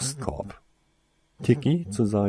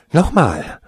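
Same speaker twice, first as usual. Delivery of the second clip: loud, higher sharp command; demanding; 7 semitones higher, 9 dB louder than usual. Acted. Younger brother urging another stunner, loud command. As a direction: bark the order to fire again. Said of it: "forderte die Stimme des Jüngeren".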